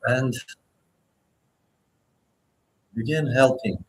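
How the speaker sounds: unhurried meditation guide with long pauses; guided meditation. Acted. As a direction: guide listeners gently, phrase by phrase, leaving space to breathe.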